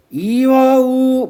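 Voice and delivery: slow, drawn-out verse reading; voorleesdemo. Shown as a demonstration. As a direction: stretch the syllables out like a line of sijo. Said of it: "얘 읽을 때".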